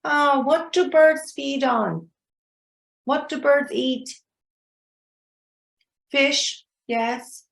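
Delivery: mock wondering to yourself, drawn out; self-questioning student. Teacher shows students how to question themselves, lightly curious. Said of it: "you can ask yourself".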